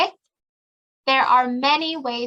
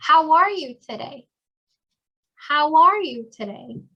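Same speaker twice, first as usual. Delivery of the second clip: higher, lively and friendly; friendly greeting; 4 semitones higher than usual. Shown as a demonstration. Teacher voicing a work introduction, bright and friendly. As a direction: greet a coworker cheerfully.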